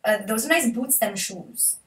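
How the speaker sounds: a half-hearted Welsh impression; Welsh accent. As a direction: Welsh speech pattern, lightly imitated. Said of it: "They double repeat themselves".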